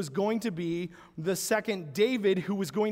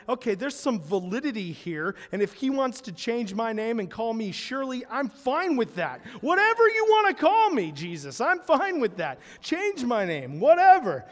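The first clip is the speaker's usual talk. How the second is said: eager convert; 2 semitones higher than usual. Retold or imitated. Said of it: "All of a sudden you're like".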